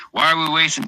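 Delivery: false start of an Irish brogue; Irish accent. Retold or imitated. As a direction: begin the Irish toast in a brogue. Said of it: "In, in an Irish accent".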